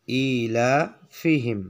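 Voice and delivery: ইলাফিহিম stretched out syllable by syllable; slow recitation. Shown as a demonstration. Teacher models the word for students, very slow. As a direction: draw ইলাফিহিম out very slowly. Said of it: "এরপর আসুন ইলাফিহিম".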